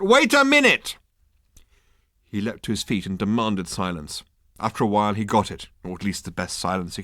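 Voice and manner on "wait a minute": high, loud urgent shout. Acted. Ford stopping the cheering crowd, shouting. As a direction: cut through the cheering. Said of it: "shouted Ford Prefect".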